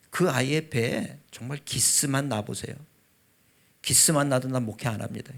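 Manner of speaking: threatening prayer. Retold or imitated. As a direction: imitate a firm warning in prayer. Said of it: "하나님을 협박하는 기도".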